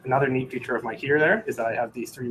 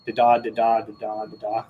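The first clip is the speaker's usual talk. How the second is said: imitated morse. Shown as a demonstration. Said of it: "hold them both together".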